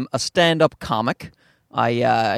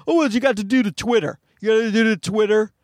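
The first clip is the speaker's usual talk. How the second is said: trend follower; 7 semitones higher, faster than usual. Acted. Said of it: "And then people go".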